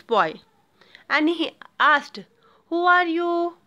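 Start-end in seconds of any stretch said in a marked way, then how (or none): 2.7-3.5 raised, surprised question; the potter cries out in surprise at the ragged boy; surprised cry. A narrator's reading. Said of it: "cried the potter in surprise".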